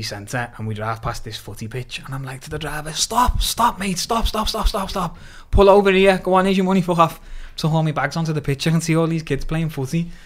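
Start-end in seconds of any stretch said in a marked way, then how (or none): 2.9-7.2 urgent shouting. Retold or imitated. Yelling at the taxi driver to stop by the pitch, urgent shout. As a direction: bark at the driver to pull over now.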